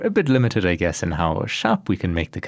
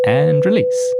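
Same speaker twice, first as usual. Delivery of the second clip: high, loud call of release; drawn-out cue; 8 semitones higher, 6 dB louder, slower than usual. Real, not acted. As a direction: call it out as the key lifts. Cueing the button release live.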